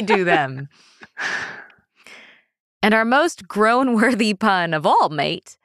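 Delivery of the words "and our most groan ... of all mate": heavy Victorian London orphan British; cartoon British accent. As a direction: overdo it as a British street urchin. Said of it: "I only know how to be a cartoon character".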